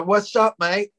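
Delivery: put-on English slang greeting; mock English accent. Comic mocking returned Canadians, put-on English accent. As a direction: mimic a Canadian faking English. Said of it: "come back talking".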